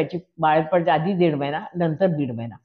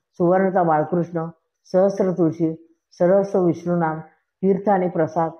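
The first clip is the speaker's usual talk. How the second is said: devotional ukhana. Acted. Reciting a spiritual ukhana at a gathering, calm and even. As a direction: list the offerings with a calm ritual cadence.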